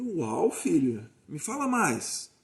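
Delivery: drawn-out, wide-eyed interest; curious encouragement. Shown as a demonstration. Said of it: "É só a gente falar essa frase".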